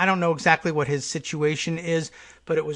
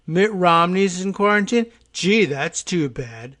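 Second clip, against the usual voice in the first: mock sarcastic sympathy; 3 semitones higher, 4 dB louder than usual. Radio host mimics Trump's reaction to Romney news, sarcastically. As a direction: imitate the president pretending to feel sorry. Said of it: "Do I detect some sarcasm there?".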